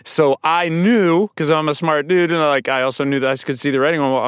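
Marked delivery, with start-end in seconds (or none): none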